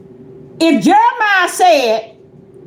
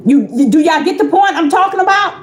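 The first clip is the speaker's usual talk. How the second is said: raised, urgent question to the room; calling out. Acted. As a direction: call it out to the whole church. Preacher calling out to listeners.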